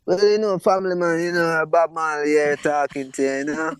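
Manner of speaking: a playful nod to a singer's talk; impression of a singer. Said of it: "I did a singer"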